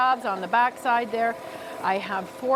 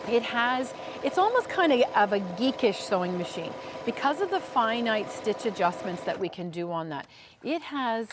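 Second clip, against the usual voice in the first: upbeat sales pitch; home shopping host. Acted. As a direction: sell the machine with enthusiasm.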